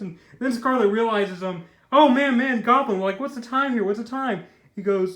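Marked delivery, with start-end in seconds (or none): 1.9-4.4 louder, higher burst of realization; mock sudden alarm. Scarlet asks Goblin the time, mock sudden alarm. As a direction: imitate someone realizing they are late.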